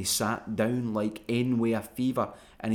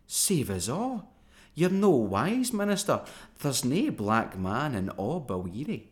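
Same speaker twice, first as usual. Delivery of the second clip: put-on yammering old woman; 3 semitones higher than usual. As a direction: mumble like a bit in the mouth. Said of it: "she didna speak plain, but yammered like a pownie with a bit in his moo".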